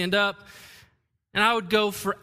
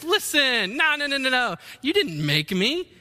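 defiant clay; 4 semitones higher than usual. Pretend. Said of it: "the clay turns to the potter and says".

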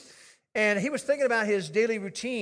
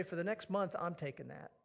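low, soft and undramatic; quiet, low-key offer; understated, matter-of-fact; 5 semitones lower, 10 dB quieter than usual. Acted. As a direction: say it simply, no big deal. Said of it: "don't make a big deal ... simply say".

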